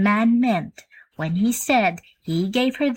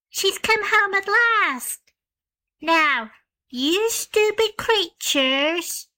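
put-on high girl, slowing to a scold; triumphant child dismissing the creatures; little girl voice; 11 semitones higher, slower than usual. A narrator's reading. Jane Gladys telling the creatures Mama is home, high and scolding.

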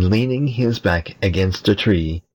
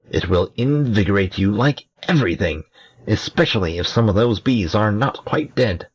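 giggly sneering imp; 4 semitones higher than usual. Acted. Imp gives mischievous advice.

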